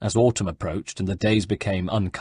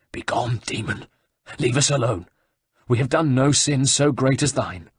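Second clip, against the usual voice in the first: croaking; 3 semitones higher than usual. Acted. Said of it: "Panting, the abbot rounded on him and croaked".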